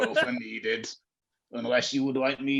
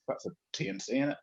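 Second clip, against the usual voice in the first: whispered aside; 7 dB quieter, faster than usual. Real, not acted. Aside about terms and conditions.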